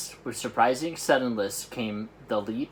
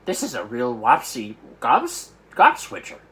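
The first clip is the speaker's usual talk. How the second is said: alarmed cry; 8 dB louder than usual. Acted. Giant warns Sophie of the worst nightmare. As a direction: climb into alarm on the last word. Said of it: "cried the B F G".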